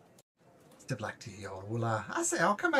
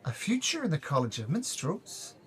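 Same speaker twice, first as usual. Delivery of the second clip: high minstrel voice; 10 semitones higher, 5 dB louder than usual. Acted.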